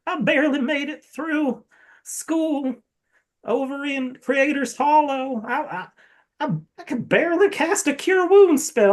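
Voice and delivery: the priest falling apart, voice climbing; small breakdown. Acted. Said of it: "he's just having a small breakdown".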